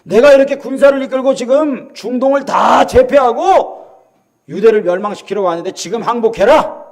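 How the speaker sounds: boastful conqueror calling out; mocking proclamation. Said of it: "히스기야를 조롱하면서 외치는 거예요". (정복자가 으스대며 항복을 외치는 말투)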